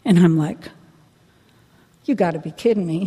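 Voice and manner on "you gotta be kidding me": laughing disbelief. Real, not acted. Disbelief at the coffee thought.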